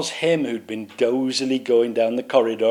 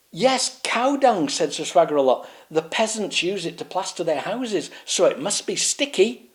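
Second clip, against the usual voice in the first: pompous knight; 7 semitones higher than usual. Acted. Swaggeralot explains.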